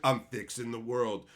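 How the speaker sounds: high, loud sneering preachy voice; mock the self-righteous writer; hammed-up smug lecture. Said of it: "some guy who's like".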